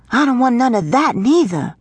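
high-pitched pouty refusal; indignant little girl. A narrator's reading. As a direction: refuse it like a fussy young girl. Girl rejects second suggested gift.

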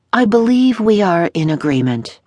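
fussy dressmaker. A narrator's reading. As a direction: play the pompous tailor fawning over his customers. Dressmaker voiced.

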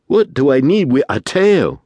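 an impatient cry, rising high; growing impatience. Acted. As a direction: toss it back, fed up with their gawking. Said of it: "cried Dillon with growing impatience".

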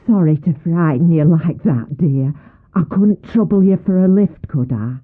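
a hint of a cosy old countrywoman; sweet, fast old-lady chatter; old country woman. Old hitchhiker sweetly asks Sally for a lift.

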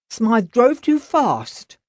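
slow, mock-grumpy old cook; hammed-up grousing cook; grumbling cook. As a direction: complain while secretly pleased. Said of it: "the cook groused".

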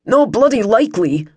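understated scornful pushback; disdainful refusal. A narrator's reading. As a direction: refuse with a touch of bluster. Puffed-up disdainful refusal in story.

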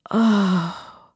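a light moaned oh; soft moan. A narrator's reading. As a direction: let the oh slip out as a mild moan. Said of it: "I moaned".

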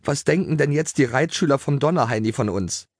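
high, mildly fretful question; whining. A narrator's reading. Greta worries about the other riders, whining. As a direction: fret about what others think. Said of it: "jammerte Greta".

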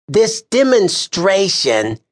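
"This demonstration" said slowly, high, weighted; pointed emphasis on "demonstration"; stress on demonstration. A narrator's reading. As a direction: lean hard and slow on "demonstration". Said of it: "he put particular emphasis on the word".

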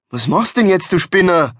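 high-pitched, incredulous question; aghast. Acted. Driver aghast as his friend opens the window, incredulous. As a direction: ask it appalled, pitch jumping up. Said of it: "fragte Hans entgeistert".

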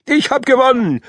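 put-on high, bright cheering child; jubilant. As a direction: crow it out like a winner. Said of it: "jubelte er".

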